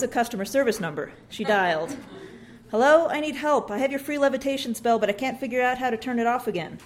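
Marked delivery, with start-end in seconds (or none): 2.7-6.8 panicked call. Acted. Mother calling customer service about her floating son, frantic. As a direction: sound frantic for help. Panicked mom calls helpline.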